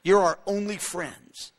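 slow, earnest admission; slow, sincere. Retold or imitated. Knesset spokesman admitting who his only friends are, slow and sincere. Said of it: "But he goes".

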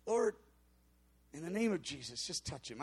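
barely muttering it, half-hearted; muttered prayer. Retold or imitated. Pastor prays over a stranger without hope, muttered quietly. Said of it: "I just kinda whispered it and muttered it".

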